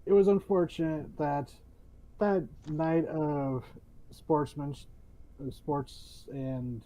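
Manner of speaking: halting, stumbling over words; fumbling for words. Real, not acted. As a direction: trip over the words, restart. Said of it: "sorry, I'm stumbling a bit".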